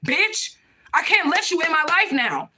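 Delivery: "Bitch" flung high, then hard; real anger spilling over; furious outburst. Real, not acted. Telling Crystal she is cut out of her life, furious.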